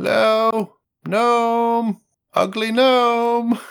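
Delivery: high, yelling, hollering skeleton voice. Narrating a game scene, the speaker voices a bedazzled skeleton calling to a gnome; skeleton yelling out. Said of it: "you can hear him sort of yelling out".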